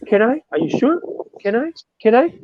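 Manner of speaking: high, eager pleading; kid in a candy store. Retold or imitated. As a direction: beg like an excited little kid. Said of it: "like a kid in the candy store".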